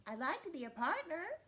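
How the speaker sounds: high, lightly voiced eager cat; hopeful cat. Cat asking Leopard to be partners, high and hopeful. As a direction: pitch it up like a cat asking a favor.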